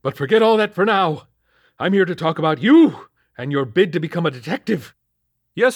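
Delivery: put-on high, loud, scolding old boss; gruff captain. A narrator's reading. Captain scolding Lakely about Hellsport beat, loud and high. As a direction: bark at the rookie.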